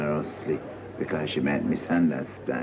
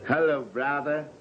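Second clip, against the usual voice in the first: high church greeting; 7 semitones higher, slower than usual. Acted.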